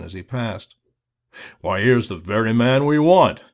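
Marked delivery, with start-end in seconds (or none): 1.6-3.4 loud, delighted cry of surprise; glad surprise. A narrator's reading. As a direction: cry out as if thrilled to see him. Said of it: "he cried out, glad surprise in every tone".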